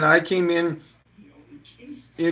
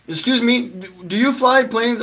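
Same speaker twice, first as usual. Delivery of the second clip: mock polite question; 9 semitones higher, 4 dB louder than usual. Pranking pilot with toy plane.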